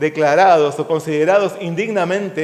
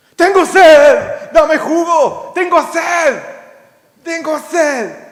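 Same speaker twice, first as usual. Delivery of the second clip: put-on child yelling voice, higher and louder; 10 semitones higher, 5 dB louder than usual. Retelling how a little child demanded juice: imitating a child shouting. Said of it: "Me gritó diciéndome".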